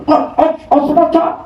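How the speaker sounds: high mumbled old man imitation; mock elder mumbling; old man mumble. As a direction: garble it like a grumpy old man. Mimicking the old man's mumble.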